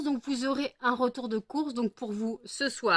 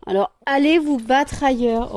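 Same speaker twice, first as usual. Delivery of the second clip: loud shooing; 3 semitones higher, 9 dB louder than usual. Real, not acted. Shooing pets away.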